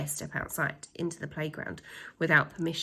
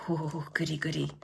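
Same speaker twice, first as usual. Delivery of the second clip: gleeful slime; 4 semitones lower, 3 dB quieter than usual. A narrator's reading. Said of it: "replied Slime".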